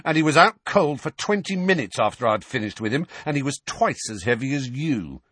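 high, rushed boastful snarl. A narrator's reading. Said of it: "snarled Dudley".

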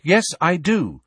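not whispering, ringing clear; clear, carrying voice. A narrator's reading. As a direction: say it up and out, for everyone to hear. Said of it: "speaking in a clear, carrying voice".

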